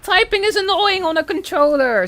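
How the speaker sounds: loud exasperated rant. Real, not acted. Ranting about console typing.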